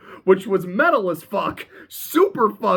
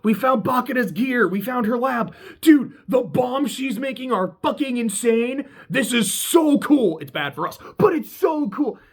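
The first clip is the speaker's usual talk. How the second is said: excited; 6 semitones higher than usual. Retold or imitated. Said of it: "and he's like".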